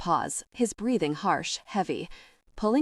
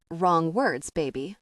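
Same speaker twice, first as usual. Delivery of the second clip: growled; slower than usual. Acted. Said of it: "he growled".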